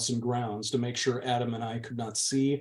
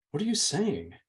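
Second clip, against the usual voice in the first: harsh; 6 semitones higher than usual. A narrator's reading. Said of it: "I said harshly".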